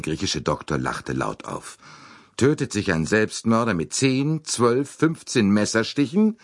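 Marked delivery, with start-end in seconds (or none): 2.4-6.4 cutting. A narrator's reading. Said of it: "fragte er schneidend".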